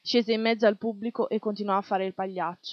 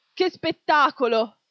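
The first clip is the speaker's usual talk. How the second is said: delighted exclamation; 5 semitones higher, 7 dB louder, slower than usual. A narrator's reading. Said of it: "uno disse".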